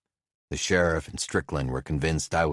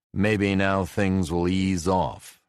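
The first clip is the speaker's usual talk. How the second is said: hopeful; 4 semitones higher, 4 dB louder, slower than usual. A narrator's reading.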